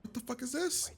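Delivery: high, breathless whispered disbelief; stunned whisper. Real, not acted. Viewer whispering at the horrifying scene, stunned. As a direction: whisper it like you can't believe your eyes.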